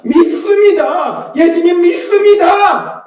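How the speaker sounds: high, slow, drawn-out cry. Retold or imitated. Father declaring belief to Jesus, acted shout. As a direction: stretch it out as an acted shout of faith. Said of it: "라고 소리쳤어요".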